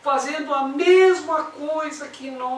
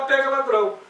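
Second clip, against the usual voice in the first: slightly raised, higher cry; imitated crowd yell; 4 semitones higher than usual. Everyone starts yelling at the thief, imitated yell. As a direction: mimic joining in a street chase cry. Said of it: "Todo mundo começa a gritar".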